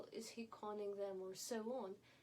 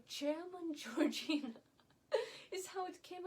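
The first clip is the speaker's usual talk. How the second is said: louder, laughing through the words; amused mockery; 6 semitones higher, 7 dB louder than usual. Real, not acted. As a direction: let a real laugh break into the mocking title. Mocking comparison, laughs mid-phrase.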